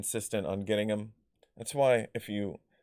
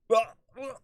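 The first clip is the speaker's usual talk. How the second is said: high choked gasps, imitated; straining for words with no breath; winded gasping; 12 semitones higher, 3 dB louder than usual. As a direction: act out having the wind knocked out. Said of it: "I can't breathe".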